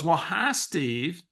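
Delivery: a hint of the caller's voice; imitated caller's voice. Caller greeting the coach on the phone, lightly imitated voice. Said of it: "I gotta use her voice for effect".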